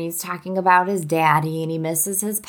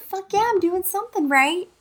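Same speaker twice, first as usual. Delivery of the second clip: mock triumphant; 11 semitones higher than usual. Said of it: "I was like".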